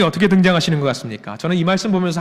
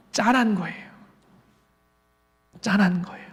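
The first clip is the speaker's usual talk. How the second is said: soft, pitying aside; tender pity; 2 semitones higher, 7 dB quieter than usual. Acted. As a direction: let it drop softly with compassion. Pities Elijah. (안쓰러워하는 나직한 목소리)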